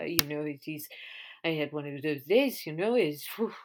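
lightly put-on foreign accent, broken English; mock broken English. Caught by friends speaking to people in France, mock broken English. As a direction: imitate yourself slipping into halting broken English. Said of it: "in broken English".

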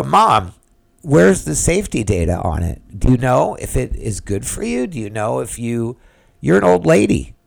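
mock-exasperated pleading with mom; retold exasperated challenge. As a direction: challenge your mother, pitch climbing at the end. Retold argument confronting his mother.

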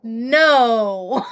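protesting shout. Real, not acted.

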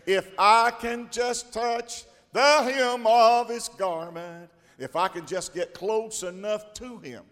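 building from steady to a high, loud slow shout; woman's rising faith. Acted. Preacher voicing the sick woman reaching for the hem of his garment. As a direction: build her faith to a cry.

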